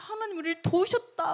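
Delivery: high-pitched retold rejoicing; acted-out grateful joy, lifted high; overjoyed. Jews rejoice that God helped them, overjoyed. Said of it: "막 엄청 기뻐하면서".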